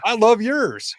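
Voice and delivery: put-on high, loud Australian accent. Guest and Australian host admiring each other's voices, Australian accent. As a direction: return the compliment in mock Australian. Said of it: "I love the accent that you're doing".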